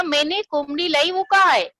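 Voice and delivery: husband yelling, rising to a shout at the end; mock angry shout at the wife. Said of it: "चिल्ला के बोला".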